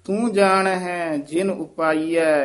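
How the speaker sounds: slow phrase coming to rest on ਉਪਾਈਐ; pause after ਉਪਾਈਐ. Shown as a demonstration. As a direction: read slowly, then stop after ਉਪਾਈਐ. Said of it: "ਇੱਥੇ ਵਿਸਰਾਮ".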